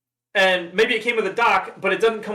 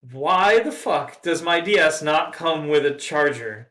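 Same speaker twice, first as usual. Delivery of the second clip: slow, emphatic retold outrage; indignant customer; slower than usual. Customer confronting the store over a missing charger, indignant. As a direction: imitate a customer's incredulous complaint.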